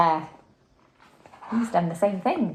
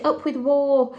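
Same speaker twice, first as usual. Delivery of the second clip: shouted; 7 semitones higher, 5 dB louder than usual. A narrator's reading. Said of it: "and they shouted".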